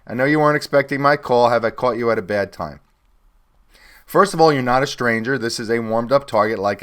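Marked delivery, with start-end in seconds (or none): 0.1-2.8 friendly, upbeat sales call greeting; demo cold call opener. Shown as a demonstration. Sales trainer demos a call opener to a prospect, upbeat. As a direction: sound like a rep opening a call.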